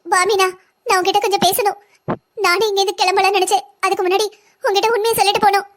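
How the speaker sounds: acted tearful confession; wounded, weepy appeal to a friend. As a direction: speak as if holding back tears. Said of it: "எதுக்கு அழுதுட்டு இருக்க?".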